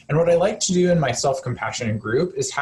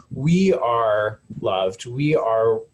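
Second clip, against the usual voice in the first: slow, tender; slower than usual. Shown as a demonstration. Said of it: "you say the same words over again".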